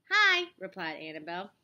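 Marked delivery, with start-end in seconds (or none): 0.1-0.5 loud, high hello back; excited greeting. A narrator's reading. Annabelle replies to her friend Tiffany, excited. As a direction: return the greeting with a bright cry.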